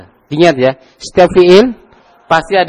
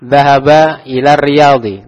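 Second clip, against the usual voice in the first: slow, drawn Arabic reading; slow demo; slow model answer; slower than usual. Shown as a demonstration. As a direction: read it out slowly to the class. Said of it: "Siapa yang bisa mengi'rab?".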